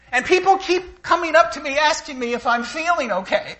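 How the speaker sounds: high, loud words broken by laughter; can't hold back the laugh; real laughter over the punchline; laughing while telling. Real, not acted. Laughing at the story.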